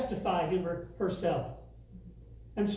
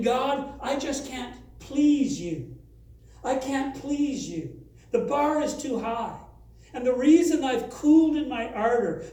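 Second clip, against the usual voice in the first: sarcastic; 3 semitones higher than usual. Retold or imitated. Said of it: "So they're being sarcastic".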